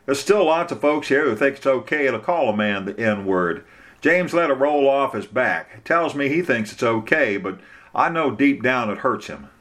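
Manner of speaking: a hint of a concerned small-town lawyer; Bubba, earnest.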